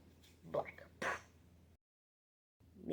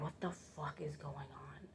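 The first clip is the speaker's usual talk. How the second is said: lower, much softer confused murmur; baffled inner voice; 4 semitones lower, 17 dB quieter than usual. Retold or imitated. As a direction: say it like a thought in your head.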